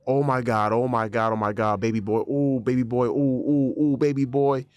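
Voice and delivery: retelling panic, voice up; panicked. Retold or imitated. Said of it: "all I'm saying to myself".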